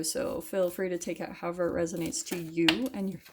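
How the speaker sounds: talking through hiccups; hiccuping. Real, not acted. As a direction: speak with little hiccups breaking in. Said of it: "Sorry, I'm hiccuping".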